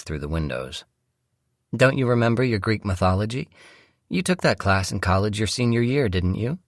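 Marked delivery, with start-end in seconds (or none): 1.8-6.6 a slightly higher voice for the wife; lightly played wife, asking; lightly voiced wife. Wife reminding her husband of his college class, lightly voiced. Wife's voice in story narration.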